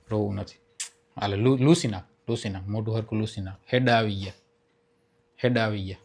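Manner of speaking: low, soft comforting voice; soothing. Real, not acted. Prankster comforting the crying girl, soothing. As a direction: gently hush someone who is crying.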